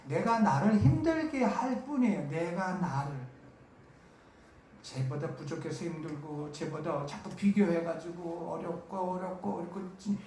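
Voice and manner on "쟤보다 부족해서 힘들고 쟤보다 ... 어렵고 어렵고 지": mock whining. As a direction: mimic a self-pitying complainer, quietly. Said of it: "이렇게 징징대고".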